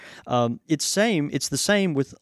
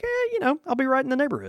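high put-on casual voice; a breezy, sing-song drop-by voice; mock drop-in voice; 11 semitones higher, much faster than usual. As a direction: play the guy who just happens to be nearby. Mock visitor voice in story.

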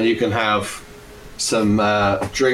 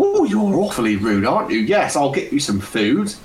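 much higher, sing-song tavern hostess; flirty barmaid; 5 semitones higher than usual. Acted. Barmaid Lady Margaret welcomes the party, high and flirtatious. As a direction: greet the gents coyly, voice high. Barmaid responds to rude player.

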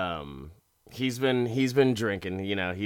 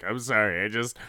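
hammed-up pleading, growing louder; mock apology; 5 dB louder than usual. Broke husband afraid to lose wife, mock apology. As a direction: imitate a pathetic husband blurting out his apology. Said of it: "he apologizes".

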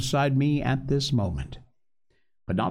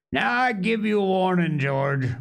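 raised, higher-pitched threat; crying a warning; 7 semitones higher than usual. A narrator's reading. Silver warns George off, crying out. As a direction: warn him off, pitched up. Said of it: "he cried".

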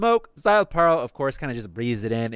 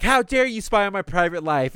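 mild mock yell, raised pitch; retold yelling; 5 semitones higher than usual. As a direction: act out his indignant outburst without really shouting. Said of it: "he starts yelling at Mayuri".

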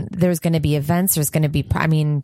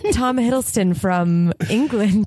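put-on British accent; 3 semitones higher, slower than usual. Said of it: "none of you actually can really do a British accent".

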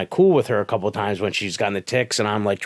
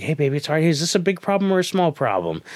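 soothing parent; 7 semitones higher than usual. Retold or imitated. Mother soothing upset daughter, retold.

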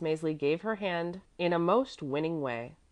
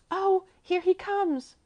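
put-on high, slow, louder alarmed child; frightened; 6 dB louder, slower than usual. A narrator's reading. Frightened little girl sees the caretaker coming, high alarm. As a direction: cry out in sudden fright, high-pitched. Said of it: "for she was frightened".

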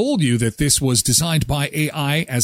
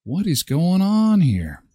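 dog's thoughts; 4 semitones higher than usual. Pretend. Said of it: "he's just sitting there staring".

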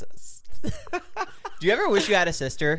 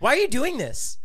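put-on whiny girlfriend voice; 9 semitones higher, 3 dB louder than usual. Acting out a girlfriend's complaint.

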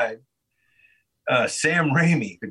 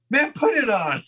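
higher, bossy "put it on"; imitating friend's demand; 12 semitones higher than usual. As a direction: bark it like a pushy friend, playfully. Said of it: "And then he's all".

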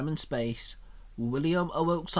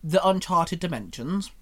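cheeky; 3 dB louder than usual. Acted. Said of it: "with a cheeky grin".

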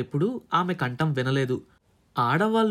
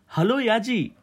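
forced smile in the voice; 6 semitones higher, slower than usual. A narrator's reading. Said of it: "కంఠంలో చిరునవ్వు తెచ్చుకొని".

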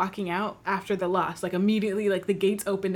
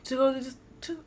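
mock incredulous; 5 semitones higher than usual. Mock questioning fans' spending.

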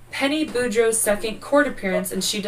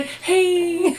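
very high, loud sing-song hey; excited greeting; 11 semitones higher, 4 dB louder than usual. Real, not acted. Greeting cousin on the podcast.

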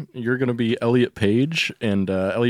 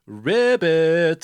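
higher, louder put-on frog ribbit; frog croak; 4 semitones higher, 5 dB louder than usual. Ad-libbed frog noise closing the rant, croaking. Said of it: "that was a gay frog at the end of that one".

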